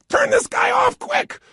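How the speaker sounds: high shrill yell of a fed-up listener; high mock yell; mock listener shout. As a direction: shout it high like an annoyed audience. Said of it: "You got".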